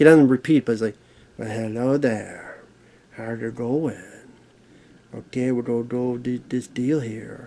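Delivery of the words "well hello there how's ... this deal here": slow, drawn-out, try-hard cool movie-star voice. Imitating a movie character who tries to sound like Matthew McConaughey. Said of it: "tries to sound like Matthew McConaughey".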